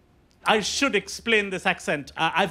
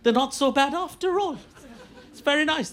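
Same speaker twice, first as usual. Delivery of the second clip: mock naive approval; 5 semitones higher than usual. Acts pleased, naive Indians.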